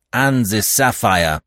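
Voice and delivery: slow curt command; peremptory. Acted. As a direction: clip out the order. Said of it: "in a peremptory tone".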